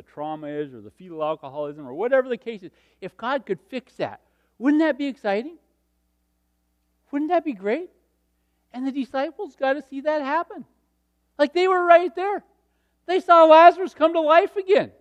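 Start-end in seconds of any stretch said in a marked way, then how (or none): 3.0-14.9 excited preaching. Real, not acted. Preacher stirring the congregation.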